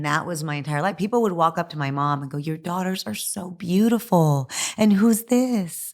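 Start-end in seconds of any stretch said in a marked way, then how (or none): 2.4-5.9 imitating gushing stranger. Mimicking people praising her sisters.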